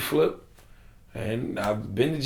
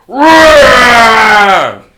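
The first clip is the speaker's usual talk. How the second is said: shouting panic; 9 semitones higher, 19 dB louder than usual. Retold or imitated. Van screaming, panic.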